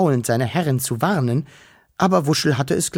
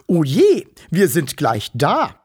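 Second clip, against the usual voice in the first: put-on high, sugary baby-talk cooing; cooing fat woman; 3 semitones higher, 4 dB louder than usual. Fat woman coos at the little Wichtel, sugary high. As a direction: coo at him like a doting auntie.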